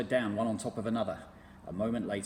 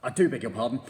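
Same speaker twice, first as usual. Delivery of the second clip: apologetic; 9 dB louder, faster than usual. A narrator's reading. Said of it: "said Mugglewump".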